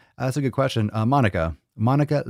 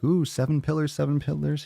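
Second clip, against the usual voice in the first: lightly voiced higher crowd voice; imitating excited viewers; 5 semitones higher than usual. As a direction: mimic the viewers cooing, a bit higher. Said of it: "Everyone's like".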